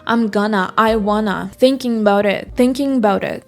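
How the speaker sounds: "I'm gonna", "I wanna", "thinking about it" each linked into one unit; blended "I'm gonna", "I wanna", "thinking about it"; connected-speech examples. Shown as a demonstration. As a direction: run "thinking about it" together as "thinkin-baurit". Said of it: "em todos os exemplos que eu dei".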